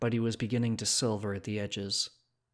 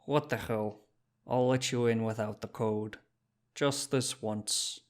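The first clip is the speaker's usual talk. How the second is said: put-on doubtful shopkeeper in a Czech accent; dense Czech accent. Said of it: "said in a dense accent".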